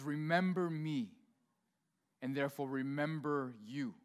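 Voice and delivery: slow, low, solemn father voice; booming-king voice, understated; Mufasa. Pretend. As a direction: speak down from the clouds slowly. Mufasa speaking from clouds.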